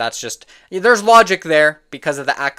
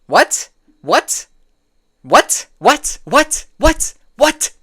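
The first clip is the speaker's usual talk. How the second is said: disbelief; 10 semitones higher, 5 dB louder, much slower than usual. Real, not acted. Repeated disbelief at a take.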